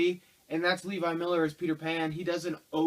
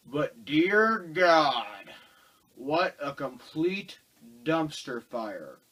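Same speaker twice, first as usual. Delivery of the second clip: exasperated disbelief; 6 dB louder, much slower than usual. Real, not acted. Exasperated movie rant opener.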